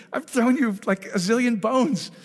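high, loud, fond rebuke from above; lightly voiced God calling the son home; a hint of God's voice. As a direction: answer as a patient father would. God answering the beggar.

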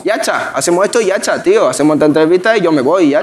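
put-on Cádiz speech, ya está run into "yacha"; Cádiz accent. Guest playing a Cádiz local, imitated accent. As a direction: try casual Cádiz talk, slurring ya está. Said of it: "el ya está".

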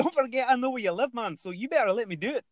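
fast, high Scottish accent. Shown as a demonstration. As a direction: rattle off a mock threat in Scottish. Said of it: "I'll do Scottish".

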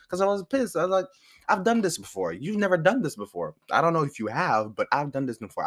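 pissed insisting. Retold or imitated. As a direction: insist hard that you've done it before. Retold argument, insisting.

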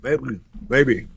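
talking with ice in mouth; words round a mouthful of ice. Real, not acted. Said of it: "I got ice in my mouth".

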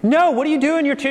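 high, loud mock Italian shopkeeper yell; retold yelling. Italian local yelling at the shopkeeper, mock loud yell. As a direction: throw your hands up and yell it, half-playful. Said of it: "so they're yelling".

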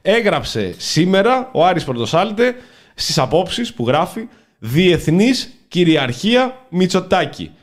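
slow, measured read with long pauses; deliberate, weighty read-aloud; mock-solemn article reading. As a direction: read the column out like a grand proclamation.

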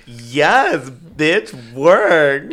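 cheering hype. Pretend. Cheering, hamming it up.

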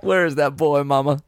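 a hint of a dying Southern soldier asking for mama; pleading to mama, lightly hammed up; Southerner dying at war. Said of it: "a Southerner dying at war".

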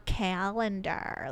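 "calendar" stretched out slowly; slow, oddly voiced "calendar"; funny pronunciation. Shown as a demonstration. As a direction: draw out the vowels of "calendar". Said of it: "sometimes I say certain words kind of funny".

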